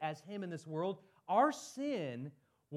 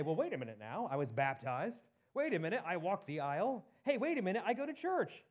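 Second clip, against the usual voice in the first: mock protest; 2 semitones higher than usual. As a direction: object as if defending your record. Acts out believer protesting to conscience.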